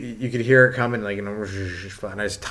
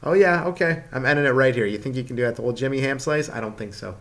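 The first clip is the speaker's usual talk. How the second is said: righteous fuming; 2 semitones higher than usual. Retold or imitated. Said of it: "My, like, code of righteousness goes".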